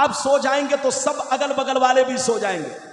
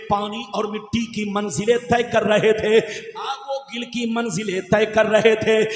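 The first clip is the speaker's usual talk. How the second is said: rhythmic, chant-like sermon with stretched key words; declamatory preaching. Real, not acted. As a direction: proclaim sacred words to a congregation. Preaches the hadith translation rhythmically. (लयदार, जोशीली तक़रीर)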